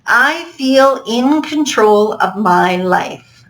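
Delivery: slow read with weight on "my"; stress on my. Shown as a demonstration. Reading the quiz statement to students, stressing "my". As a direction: lean into the word "my", slowly. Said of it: "I'm gonna stress the word my".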